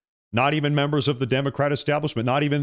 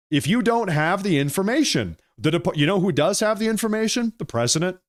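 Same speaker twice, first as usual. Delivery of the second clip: heated; 6 semitones higher than usual. Real, not acted. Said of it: "Sorry, I'm getting heated".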